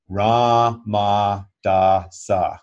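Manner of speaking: ra, ma, da, sa said slowly and evenly, one syllable per finger; mantra syllables. Shown as a demonstration. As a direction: demonstrate the second set syllable by syllable. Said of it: "second set of four syllables".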